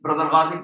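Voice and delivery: Brother Ghazi, gh in place of Q; Arabs' mispronunciation. Retold or imitated. Arabs addressing the teacher, Qazi turned into Ghazi. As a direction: call out Brother Ghazi with a throaty gh. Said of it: "so they call me".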